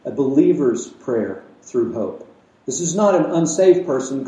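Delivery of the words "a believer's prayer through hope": slow, weighted 'A believer's prayer through hope'; words chosen carefully. Shown as a demonstration. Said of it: "I chose my words carefully there".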